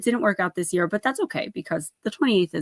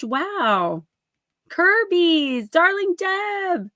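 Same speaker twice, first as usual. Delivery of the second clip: high, singsong thank-yous to fans; delighted shout-outs; 7 semitones higher, 4 dB louder, slower than usual. Real, not acted. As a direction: gush out each name, pitched high and stretched. Calling out thanks to viewers.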